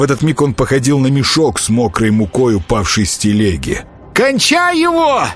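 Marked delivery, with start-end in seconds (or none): 4.1-5.3 much higher, slow, squealing character voice; thin squeal. Acted. Konyai urges them to finish the boyar, thin squeal. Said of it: "тоненьким голоском визжал Коняй".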